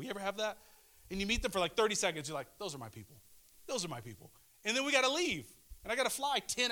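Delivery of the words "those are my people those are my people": low, soft fond aside. Retold or imitated. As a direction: say it low, like a tender realization. Fond recalled reaction to new friends.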